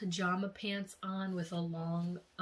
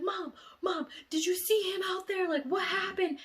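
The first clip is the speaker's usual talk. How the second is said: much higher, loud calling out; urgent shout; 13 semitones higher, 6 dB louder than usual. Retold or imitated. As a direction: yell for news at the door. Rushing to mom at the door.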